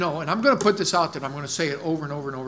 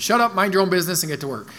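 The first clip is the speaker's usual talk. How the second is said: fast imitated command; Brad Tybert's blunt order; 2 semitones higher, faster than usual. Pastor repeating coworker's version of the verse, quick blunt command. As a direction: rattle off the orders in one go. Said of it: "That's how he said it".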